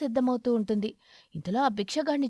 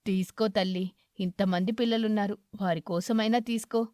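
kindly aged beggar, content; grateful old eagle; 3 semitones lower than usual. Acted. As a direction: lower old man's voice. Eagle character voice.

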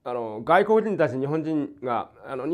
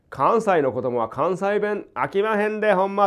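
Kansai dialect; 4 semitones higher, slower than usual. Retold or imitated.

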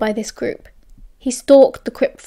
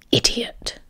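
whispery, disdainful put-down; 6 dB quieter than usual. A narrator's reading. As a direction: drop it softly with contempt. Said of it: "shaking his head disdainfully".

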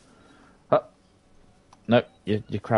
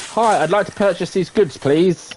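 higher, politely chirpy shop voice; mock polite customer; 6 semitones higher, 4 dB louder than usual. Player voicing a customer at the till, mock polite. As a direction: play the over-polite customer.

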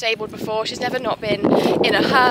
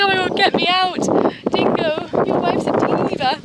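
panicked exclamation; 8 semitones higher, 6 dB louder than usual. Retold or imitated. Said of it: "I was like".

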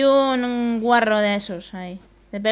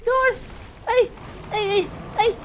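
high shrieks of disgust; raging gamer; 10 semitones higher than usual. Real, not acted. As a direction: scream at the gross bugs. Monster attack, screams and hates bugs.

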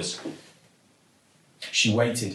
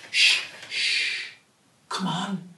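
imploring; 7 semitones higher than usual. Acted. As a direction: gently beg the rat to come closer. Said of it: "implored Zoe".

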